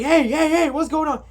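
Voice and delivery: high, urgent repeated hey; acted-out startled calling to stop; imitating alarmed intervention. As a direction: burst in trying to break it up. Acts Ian bursting in alarmed.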